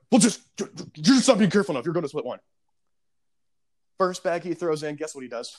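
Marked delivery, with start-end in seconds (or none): 0.1-2.4 mock whiny customer. Customer scolding, retold.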